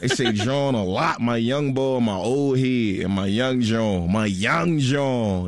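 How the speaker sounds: drawn-out Philly slang accent, building; exaggerated Philly drawl. Shown as a demonstration. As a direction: drag out each phrase like a Philly local.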